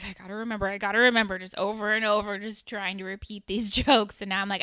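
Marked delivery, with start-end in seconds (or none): 0.0-0.7 P=A; anxious muttering. Retold or imitated. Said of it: "I was so anxious". 0.7-1.4 P=A; anxious, louder repeat. Retold or imitated. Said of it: "I was so anxious".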